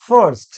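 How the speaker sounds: ফার্স্ট said firmly as "first", not "fast"; corrected pronunciation. Shown as a demonstration. Teacher repeating the right form for learners, properly pronounced. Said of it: "কি হবে?".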